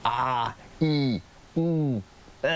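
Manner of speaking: อา อี อู เอ each said clearly and apart; exercise vowels. Shown as a demonstration. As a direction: sound out อา อี อู เอ one by one like an exercise. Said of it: "ให้ออกเสียงดีกว่า". (ออกเสียง อา อี อู เอ ทีละคำชัดๆ)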